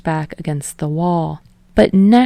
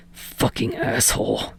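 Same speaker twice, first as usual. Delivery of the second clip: softer, breathy hissed swear; whispered curse; 6 semitones lower, 7 dB quieter than usual. A narrator's reading. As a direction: spit it out in a low hiss. Bakugo curses Shindo under breath.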